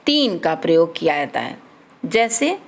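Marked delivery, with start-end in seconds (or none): none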